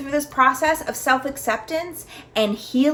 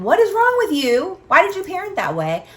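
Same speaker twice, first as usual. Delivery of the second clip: higher and louder, harshly berating herself; harsh self-criticism; 7 semitones higher, 4 dB louder than usual. Retold or imitated. Mother voicing the harsh inner critic she held back, loud and high. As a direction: snap at yourself in disgust. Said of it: "Instead of saying".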